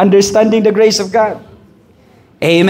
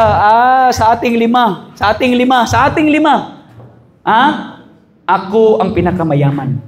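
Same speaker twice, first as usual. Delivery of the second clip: repeated boast, climbing in pitch; boasting finger; 3 semitones higher than usual. Acted. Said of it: "Sabi ng isa". (paulit-ulit na pagyayabang)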